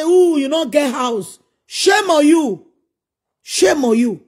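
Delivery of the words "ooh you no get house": mocking brag.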